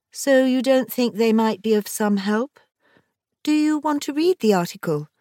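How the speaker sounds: timid, meek little voice. The narrator answers the oncologist, in a small voice. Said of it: "I said in a small voice".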